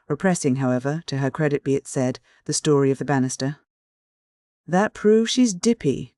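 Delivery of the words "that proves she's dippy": growled. A narrator's reading. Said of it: "growled Uncle Benjamin".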